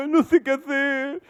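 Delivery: hammed-up helpless wail, high voice; mock a crybaby who is at a loss; lloriqueo fingido. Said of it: "viven llorando". (imitando un quejido llorón y agudo)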